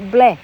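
BLACK said as "bleh", mouth left open; open ending, no k. Shown as a demonstration. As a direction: end BLACK on the open vowel. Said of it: "嘴巴好开啊". (BLACK 张着嘴收尾，不念 k)

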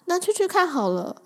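breezy, carefree shrug, pitch rising high; an easygoing yes, ending high; easily persuaded. Retold or imitated. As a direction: toss it off like it's nothing. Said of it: "超容易说服的".

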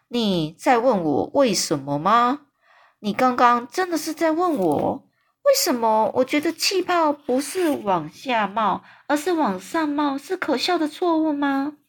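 a giant who can't believe the question; hammed-up astonished giant; incredulous giant. A narrator's reading.

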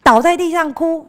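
工友高声怂恿小孩; coaxing worker. Retold or imitated. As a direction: egg the child on mischievously. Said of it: "工友还教我说".

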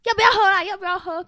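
high, insistent mock pressing; imitated pestering. Man gripping her hand, urging drinks, imitated pestering. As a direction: imitate a pushy man nagging.

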